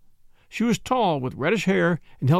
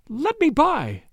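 high-pitched, panicked plea; frightened shriek; 10 semitones higher, slower than usual. Acted. Woman trying to flee past the detective, frightened shriek. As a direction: cry out high to get past. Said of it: "she shrieked".

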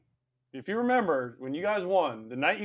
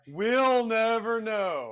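mock mysterious; 2 semitones higher, much slower than usual. Teasing mystery about ball.

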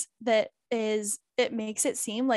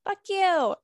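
high, louder mock retort; 9 semitones higher, 4 dB louder than usual. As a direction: fire it back in playful defiance. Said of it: "I was like".

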